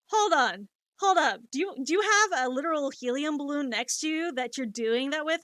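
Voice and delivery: mock-astonished retold reaction, starting loud; incredulous friends. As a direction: burst in as a disbelieving listener.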